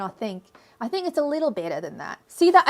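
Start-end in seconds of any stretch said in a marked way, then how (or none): 0.8-2.2 Australian accent. Shown as a demonstration. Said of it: "I can actually do a better Australian accent". 2.3-2.7 Australian accent. Shown as a demonstration. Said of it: "I can actually do a better Australian accent".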